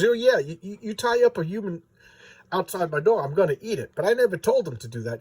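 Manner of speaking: lightly voiced put-upon dragon; aggrieved dragon. Dragon defends itself to would-be killers, mildly indignant. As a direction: protest your innocence as a casual dragon.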